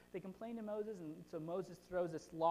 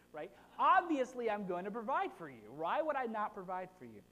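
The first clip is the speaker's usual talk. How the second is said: lightly voiced frustrated God; a hint of a fed-up parent; exasperated Lord; 2 semitones higher, 4 dB louder than usual. The Lord rebuking complainers, mildly exasperated. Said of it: "And so the Lord says".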